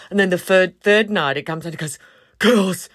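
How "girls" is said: desperate plea. Retold or imitated. Jay begs the girls for help.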